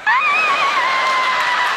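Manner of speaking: mock scream from spicy curry. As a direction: shriek as if your tongue is on fire. Scream after spicy food.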